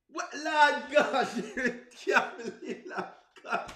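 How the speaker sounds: slow, incredulous Lord gosh through laughter; laughing disbelief. Real, not acted.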